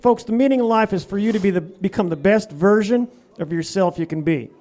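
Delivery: Southern redneck voice. Acted. Corky the comedy persona, Southern accent sermon. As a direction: preach life tips as a Southern yokel. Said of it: "he kinda talks like this right here".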